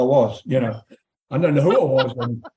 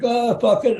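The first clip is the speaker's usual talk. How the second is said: retold swearing; 8 semitones higher than usual. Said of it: "I started swearing at the audience".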